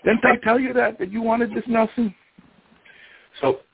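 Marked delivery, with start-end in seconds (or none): 0.0-2.1 very high-pitched, gotcha outcry; high, insistent retold "aha"; triumphant accusation. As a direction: act out a vindicated husband, voice way up. Husband triumphantly accuses wife in quarrel.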